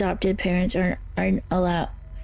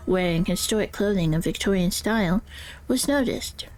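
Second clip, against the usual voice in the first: character voice. Acted. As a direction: guide narrator voice, eerie and measured. Reads ghost-hunting guide in character.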